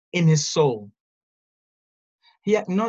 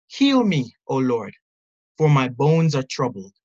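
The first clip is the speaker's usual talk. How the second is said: a lifted, louder plea to God; anguished plea for healing; pleading cry; 3 semitones lower, 4 dB louder than usual. Retold or imitated. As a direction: cry it out as David's prayer, mostly in earnest. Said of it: "David cries out".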